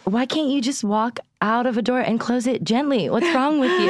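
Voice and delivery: retold exasperation. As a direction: imitate a mildly fed-up mother pleading. Retelling mom's complaint about slamming.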